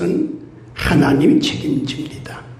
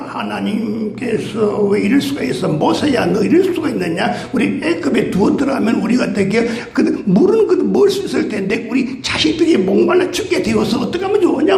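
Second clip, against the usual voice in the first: mock grumbling. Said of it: "막 원망 불평하는 거예요".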